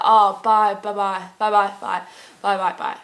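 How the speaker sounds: lightly imitated string of goodbyes; Irish phone goodbye. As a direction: rattle off byes as a mock phone sign-off. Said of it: "And they'd be like".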